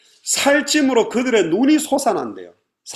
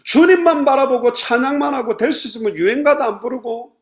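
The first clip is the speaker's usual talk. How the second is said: loud, high-pitched plea of complaint; acted lament, pushed high and loud; aggrieved complaint; 4 semitones higher, 4 dB louder than usual. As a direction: protest the unfairness, voice raised. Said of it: "이런 하소연인 거예요".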